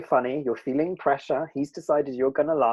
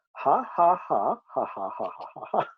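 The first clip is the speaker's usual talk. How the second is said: trying to laugh; 4 semitones higher than usual. Acted. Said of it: "I'll try".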